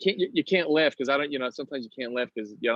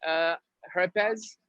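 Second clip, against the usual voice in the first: slow, higher Spanish-name customer; put-on customer voice; 4 semitones higher, much slower than usual. Customer giving barista a fake name, slow put-on voice. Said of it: "so you use different voices".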